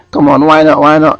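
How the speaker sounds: woman pleading as he refuses, mock European accent. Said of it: "try and do an accent".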